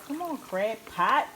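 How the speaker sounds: slow, coaxing call to the crab pot. Real, not acted. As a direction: gently hurry the pot along.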